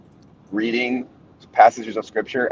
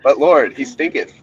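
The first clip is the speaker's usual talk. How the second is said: mock King James; 4 semitones higher, 3 dB louder than usual. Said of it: "The, the King James especially".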